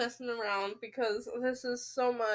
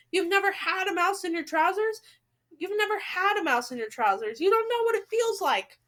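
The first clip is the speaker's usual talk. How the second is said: louder, outraged cook; indignant shout; 4 semitones higher, 4 dB louder, faster than usual. Acted. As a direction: protest loudly.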